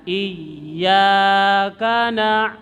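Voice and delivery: Iyyaka na- very slow, na swallowed in the throat; throat ain. Shown as a demonstration. Teacher models the ain from the throat.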